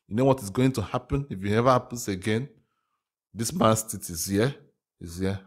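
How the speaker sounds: a light, badly faked Russian accent; hammy mock Russian, barely shifted from own voice; a hint of a joke Russian accent; terrible Russian accent. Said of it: "I know that was a terrible Russian accent".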